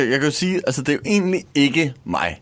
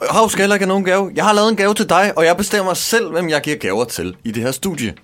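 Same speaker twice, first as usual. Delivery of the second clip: loud, high angry outburst; angry shout; 8 semitones higher, 3 dB louder than usual. Acted. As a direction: yell it down bossily. Host refusing gifts, shouting.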